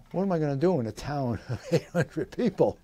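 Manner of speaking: incredulous, with a laugh breaking through; amused disbelief. Retold or imitated. Young officer balking at a tiny-town posting, laughing disbelief. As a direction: laugh mid-question at the absurdity.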